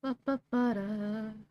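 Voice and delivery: sputtering lips from spicy food; burning lips. Real, not acted. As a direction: blow air through burning lips. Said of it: "My lips are on fire".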